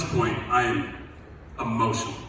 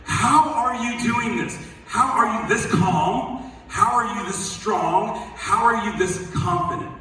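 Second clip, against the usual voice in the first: higher, slower amazed questioning; 5 semitones higher than usual. Retold or imitated. Pastor asking Chris in disbelief, amazed. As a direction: marvel at his calm, slowly. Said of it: "I'm like".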